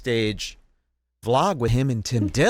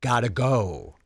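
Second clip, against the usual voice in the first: mock Tim excuse. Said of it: "as you could see".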